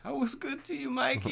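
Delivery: high, soft, hurt plea; imitated pleading victim. Host voices Danny Trejo's character to Michael, imitated plea. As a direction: plead softly in a high mock-wounded voice.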